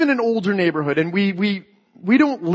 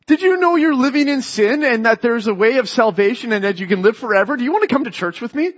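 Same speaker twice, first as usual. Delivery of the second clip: pushy evangelist; 4 semitones higher than usual. Retold or imitated. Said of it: "just say".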